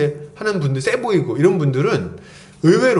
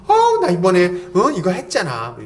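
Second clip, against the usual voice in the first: boastful bragging. Retold or imitated. Mocks a boastful person.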